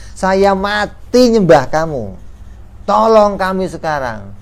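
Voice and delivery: a lightly voiced plea from desperate worshippers; pleading worshippers. Worshippers beg idols in afterlife.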